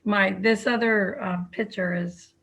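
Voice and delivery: muffled by a face mask; talking through a mask, slightly muffled. Real, not acted. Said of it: "I have my mask on".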